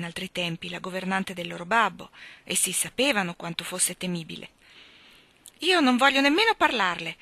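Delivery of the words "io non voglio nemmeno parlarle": loud, higher angry outburst; angrily. A narrator's reading. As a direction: flare up, furious. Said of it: "esclamò rabbiosamente Jane". (esclamazione rabbiosa)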